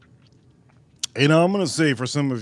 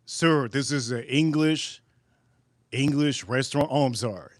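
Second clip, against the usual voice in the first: apologetic waiter; 6 dB quieter than usual. Acted. Acted waiter corrects the customer.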